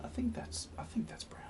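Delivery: whispered musing over the paint; voiceless, to himself. Real, not acted. Muses over mixed colour.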